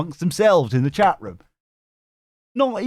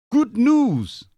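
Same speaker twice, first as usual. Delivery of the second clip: high, sing-out headline; upbeat announcement; 11 semitones higher, 4 dB louder than usual. Pretend. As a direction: announce it big and high, falling at the end. Announcing an upbeat segment name.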